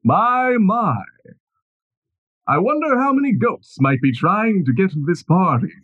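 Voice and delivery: lightly voiced smug nobleman; a hint of a gloating lord; booming villain voice. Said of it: "you hear a booming voice say".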